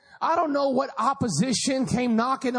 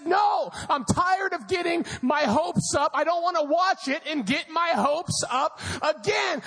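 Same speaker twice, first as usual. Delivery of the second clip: fed-up dad; 4 semitones higher than usual. Retold or imitated. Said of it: "He said".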